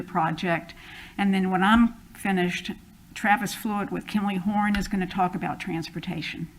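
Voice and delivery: muffled by a face mask; speaking through a mask. Real, not acted. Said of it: "hear me through my mask".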